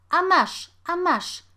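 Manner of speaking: loud high shout with each blow. A narrator's reading. Mother beating her son: loud high shout. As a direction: yell it as you strike. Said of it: "krzyczała kobieta".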